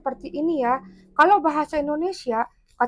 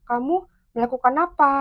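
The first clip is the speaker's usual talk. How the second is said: "Kamu melakukan apa?" with the pitch rising on "apa"; rising question intonation. Shown as a demonstration. Teacher showing students how questions rise, rising intonation on "apa". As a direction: ask it with "apa" lifting at the end. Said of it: "Kalau bertanya berarti intonasinya naik".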